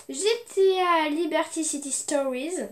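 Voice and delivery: French speaker's go at an English accent; game title in a French-tinged English accent; best English accent. Shown as a demonstration. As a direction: lift the pitch for an attempted English accent. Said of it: "Mon meilleur accent anglais".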